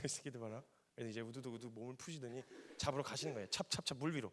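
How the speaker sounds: ordinary talk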